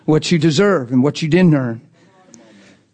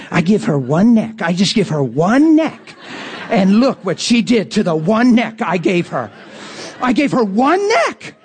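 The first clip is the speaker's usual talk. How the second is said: building comic indignation, pitch climbing to the end; mock exasperation; 3 semitones higher than usual. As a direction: complain in disbelief, leaning on ONE NECK. Voicing God's mock exasperation over neck.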